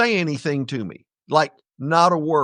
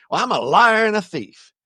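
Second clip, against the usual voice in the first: tough cowboy voice; 4 semitones higher than usual. Retold or imitated. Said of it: "I put on my, my John Wayne, Clint Eastwood, bad to the bone white old man".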